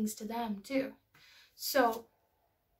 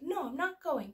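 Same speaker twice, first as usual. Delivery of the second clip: raised-pitch imitation of a defiant kid; refusing child; 5 semitones higher than usual. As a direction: mimic a child digging in. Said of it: "she wasn't crying yet".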